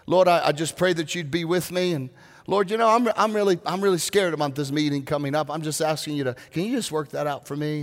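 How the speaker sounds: a hint of an easygoing, chatty prayer; casual prayer. Shown as a demonstration. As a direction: talk to God like a friend.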